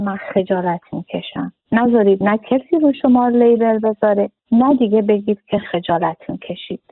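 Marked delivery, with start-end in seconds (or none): 0.0-1.5 mock shy excuse. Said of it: "نباید بگید".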